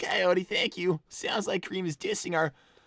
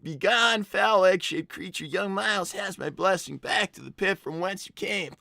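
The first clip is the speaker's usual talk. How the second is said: a slightly louder, lightly hammed-up divine decree; mild goddess voice; 3 dB louder than usual. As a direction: banish the egg like a mock deity. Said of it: "You really are a wonderful goddess".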